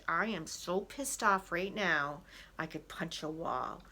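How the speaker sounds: restrained mock anger through gritted teeth. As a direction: hold the anger in, at normal volume. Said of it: "say it to yourself with gritted teeth".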